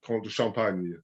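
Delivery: Comte de Champagne in a French accent. Shown as a demonstration. Telling the learner her own French way. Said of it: "saying it with a French accent".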